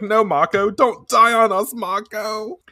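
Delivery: high, loud pleading to Mako; crying out. Retold or imitated. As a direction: beg her friend not to die, voice up high. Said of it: "she's like".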